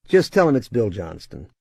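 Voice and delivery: confident boss-level command; tone of authority. Shown as a demonstration. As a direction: tell her, don't ask. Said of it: "keep a tone of authority".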